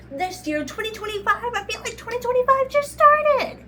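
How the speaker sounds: high, loud disbelief; amazed. Real, not acted. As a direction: squeal in disbelief. Exclaiming amazement.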